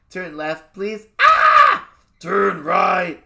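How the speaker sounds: polite ask, then a high, loud scream on turn right; sweet please, then burst into a shriek; kids screaming directions. Retold or imitated. Kids' nav voice yelling at dad in the car. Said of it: "They'll scream".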